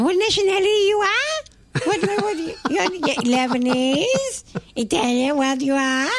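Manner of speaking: high-pitched mimic of a migrant mum's broken English; imitating mum's accent. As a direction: play the pushy mum asking questions. Mum quizzing the air-con man.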